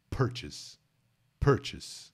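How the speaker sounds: "purchase" with stress on PUR, PER-chis; first syllable stress. Shown as a demonstration. Teacher drills the stressed first syllable of "purchase". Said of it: "Sílaba tônica é a primeira".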